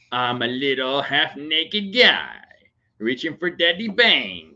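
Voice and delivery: slow, lightly voiced little boy; mild baby-voice narration of the son; voicing the baby. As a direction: speak for the baby, a little playful. Dad voices his baby son.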